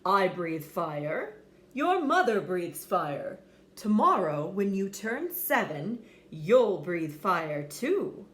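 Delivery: slow, firm, lightly deepened dad; proud father dragon, slow and firm. Acted. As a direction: lay down the family rule. Father dragon lecturing son.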